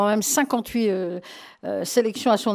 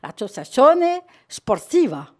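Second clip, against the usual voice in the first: "L'Associazione Sportiva" said slowly with full Italian vowels and rolled r; Italian pronunciation; 3 semitones higher, 3 dB louder than usual. Shown as a demonstration. Radio host tries the club's name in real Italian, slow careful Italian accent. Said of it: "je vais essayer de le dire en italien".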